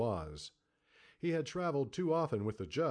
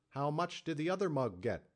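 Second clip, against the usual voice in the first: higher, pushy saloon keeper; demanding; 6 semitones higher than usual. A narrator's reading. Saloon keeper pressing the kidnapper about money, demanding. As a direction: press him for the figure. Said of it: "the saloon keeper demanded".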